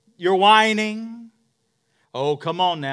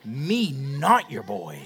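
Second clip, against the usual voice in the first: laughing toddler imitation; 4 semitones lower, slower than usual. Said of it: "stomps his foot".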